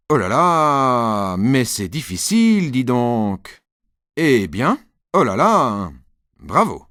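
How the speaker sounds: mock admiration. Dad pretends to admire the dictation, slow and exaggerated. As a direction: fake being impressed.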